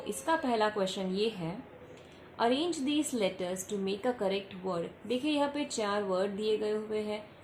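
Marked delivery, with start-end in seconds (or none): 2.4-4.9 slow, careful teacher's reading; dictating the task to pupils, slowly. Shown as a demonstration. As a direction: read the question out slowly, word by word. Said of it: "teacher reads the question slowly".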